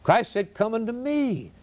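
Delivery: solemn, emphatic pulpit delivery with weighty pauses; earnest preaching. Real, not acted. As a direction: press the warning and appeal on the congregation. Preaches warning and altar appeal.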